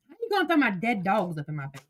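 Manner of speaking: soft, fast, tearful question; a soft tearful complaint; choked up. Real, not acted. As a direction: swallow back the tears as you ask. Crying, soft.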